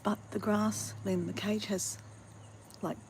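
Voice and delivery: hushed whisper, barely voiced. Real, not acted. Vlogger explaining the bird's cage while friends sleep, whispered. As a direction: keep it down so nobody wakes. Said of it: "I'm whispering because my friends are just upstairs sleeping".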